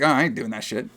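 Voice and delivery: imitating a reluctant sidekick who can't be bothered; mock grumbling refusal; lazy, annoyed. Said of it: "he sounds so lazy".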